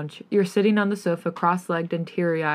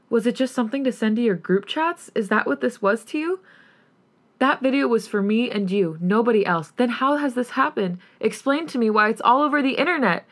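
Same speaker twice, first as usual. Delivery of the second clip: mild scream; 5 semitones higher than usual. Acted. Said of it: "as you scream".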